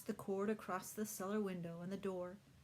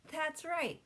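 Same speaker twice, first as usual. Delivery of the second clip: giggling; 10 semitones higher, 6 dB louder than usual. A narrator's reading. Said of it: "Ricky said with a giggle".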